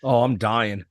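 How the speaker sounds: congested, sick voice. Real, not acted. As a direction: talk through a blocked nose. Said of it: "who's sick as hell".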